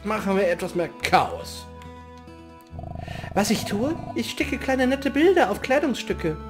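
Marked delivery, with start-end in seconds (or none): 3.3-6.4 lightly voiced girl. First reading of NPC line.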